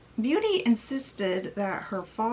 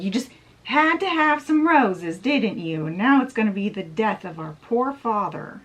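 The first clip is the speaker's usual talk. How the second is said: upset accusation; 5 dB louder than usual. Retold or imitated. Upset sisters blaming Beauty for their father's fate, mock accusing. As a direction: scold her like a mildly hammed-up upset sister. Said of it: "crying and acting upset".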